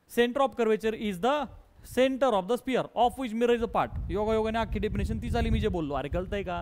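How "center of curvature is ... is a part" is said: each word spaced out for copying; slow dictation. Shown as a demonstration. Teacher dictating a definition to the class, slow and even. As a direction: read it out slowly so students can write it down.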